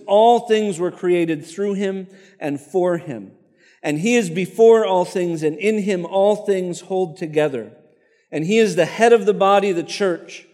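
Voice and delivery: measured, lightly emphatic scripture reading. Acted. Preacher reading Colossians aloud to the congregation, measured and proclaiming. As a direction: read it out as a proclamation.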